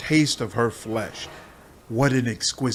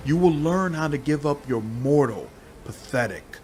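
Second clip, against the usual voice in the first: a many-bodied demon whispering its bargain; hissing swarm demon. Acted. Swarm demon coaxing the hero to free her.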